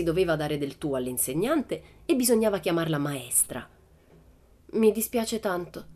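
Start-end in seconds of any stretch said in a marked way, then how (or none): 4.7-5.9 contrite. Acted. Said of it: "disse Pippi contrita".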